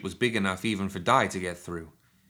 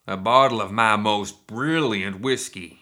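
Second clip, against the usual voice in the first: slow, loud Cockney-tinged shout; 6 dB louder, slower than usual. A narrator's reading. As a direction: bellow it slowly to the whole room. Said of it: "he shouted".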